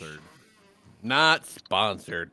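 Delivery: slow, strained, stifling a sneeze; words squeezed out around a coming sneeze; holding back a sneeze. Real, not acted. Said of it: "I'm trying not to sneeze".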